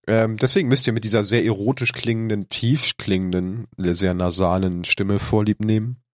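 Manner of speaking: blocked nose, nasal cold voice; talking through a heavy head cold; stuffy nose. Real, not acted. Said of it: "mit einem sehr verrotzt klingenden Sprecher".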